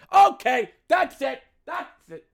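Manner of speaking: high, exasperated snap; high fed-up outburst. Real, not acted. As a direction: throw up your hands, done.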